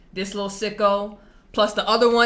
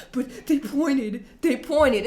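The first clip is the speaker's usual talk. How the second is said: put-on whiny kid; 3 semitones higher, slower than usual. Upset kid's whiny reply.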